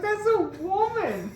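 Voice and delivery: high, loud indignant protest; indignant retort. Retold or imitated. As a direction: insist hard, half laughing. Outraged quote to officer.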